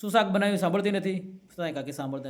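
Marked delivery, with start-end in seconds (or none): 0.0-0.6 mock husband yelling across the house; impatient call. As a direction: call out again, a bit fed up. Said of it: "ચાલીસ ફૂટ દૂર રહીને બૂમ મારે છે".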